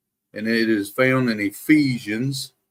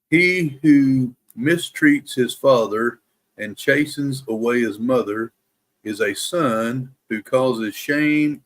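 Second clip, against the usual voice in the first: measured scripture reading with careful pauses; slowed-down Bible reading. Real, not acted. Reader sharing morning Proverbs with a livestream, slowed-down careful reading. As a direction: read each proverb slowly and deliberately. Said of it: "I was trying to slow down".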